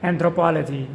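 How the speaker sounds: Anthropology, stressed on the third syllable; model pronunciation. Shown as a demonstration. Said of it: "With the stress on the third syllable".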